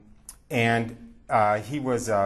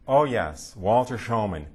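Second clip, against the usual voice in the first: mock screaming rabbi; 4 semitones higher, 4 dB louder than usual. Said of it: "He starts screaming at the top".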